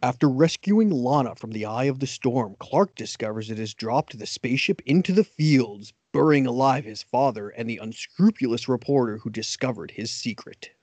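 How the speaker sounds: trailer announcer reading the teaser; lightly voiced TV promo announcer. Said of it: "I'm gonna see if I can do your announcer voice".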